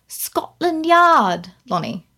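mock British accent, slow first words; bad British accent. Mimicking a miscast actress's line, bad British accent. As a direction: imitate a badly done British accent. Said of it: "in the worst British accent".

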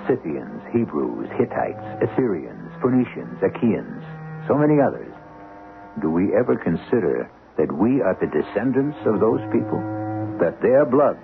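grand, measured storyteller with weighty pauses; dramatic story narration. A narrator's reading. Host opening act one on our ancient ancestors, dramatic narration. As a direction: narrate like an epic, building through the questions.

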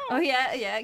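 excited. Real, not acted. Reacts to whale noise.

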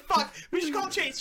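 giggling through a quote; quoting through giggles; stifled giggles. Retold or imitated. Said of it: "Chase is like".

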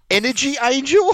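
high, loud wail breaking into laughter; hammed-up crying girl reading out the mistake; mock bawling. Quoting the girl's botched tattoo wording, mock bawling. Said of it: "And she goes".

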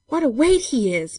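high, loud, straining exclamation; strained cry of effort; panted. A narrator's reading. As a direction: heave it out under a heavy load. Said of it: "panted Bob".

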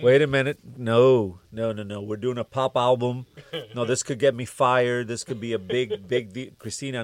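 loud mock-panicked objection; alarmed protest. Producer telling the singer it's a pop album, alarmed protest. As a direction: cut in loudly to put a stop to it.

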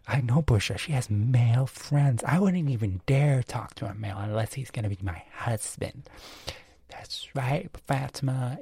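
lightly voiced scandalised gossip; a hint of put-on gossip voice; gossiping friend. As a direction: play a catty, judgmental friend agreeing. Acts gossiping women's phone chat.

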